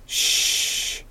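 unvoiced shush, soft; a quick whispered shh. A narrator's reading. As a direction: hush her so no one hears. Hushing her in the woods.

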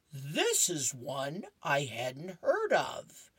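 slow, lightly voiced musing dog; Snoopy voice. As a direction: muse over the book slowly. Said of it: "and he says".

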